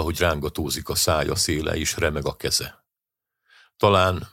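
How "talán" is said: unsteady voice. A narrator's reading. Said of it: "a hangja már nem volt olyan határozott".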